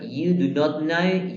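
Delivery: slow, careful full form. Shown as a demonstration. Teacher showing students the full form, slow. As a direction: lay out every word slowly. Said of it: "Puede ser".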